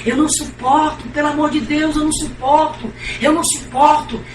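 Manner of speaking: anguished cry. Retold or imitated. Mother in torment begging daughter, anguished desperate cry. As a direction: cry out as if unbearable pain.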